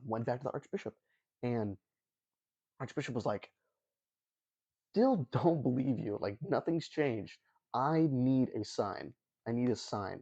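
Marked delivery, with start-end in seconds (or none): 4.9-7.4 exasperated archbishop. Retold or imitated. Archbishop impatiently refuses again. 7.7-9.1 slow, dragged-out, mock-impatient "I need a sign"; drawn-out demand.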